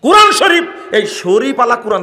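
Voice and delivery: high, loud outraged cry; preacher shouting at the congregation. Real, not acted. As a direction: bellow the question at the crowd.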